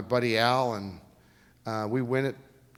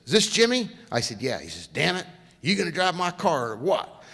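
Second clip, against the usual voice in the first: higher, louder, impatient; the boss demanding an answer; impatient car owner, raised voice; blunt team owner; 4 semitones higher, 4 dB louder than usual. Retold or imitated. Gruff boss voiced, loud and high.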